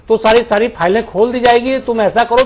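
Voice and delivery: imagined political pressure. Acted. Acting out a coercive political offer.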